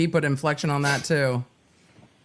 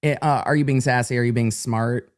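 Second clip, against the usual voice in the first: mock confused listeners; 5 semitones lower than usual. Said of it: "some of you were like".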